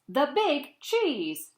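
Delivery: slow, proud "The Big Cheese"; drawn-out title. Acted. Cheese boasting to listeners, slow and proud. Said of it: "say it with me".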